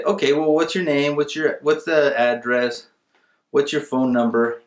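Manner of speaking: monotone question list, all one pitch. Shown as a demonstration. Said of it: "in that same monotone voice".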